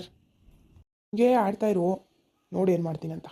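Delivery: drawn-out, slow threat; slow warning. Acted. Boss slowly warning his cheeky clerk, menacing. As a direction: stretch each word out as a warning.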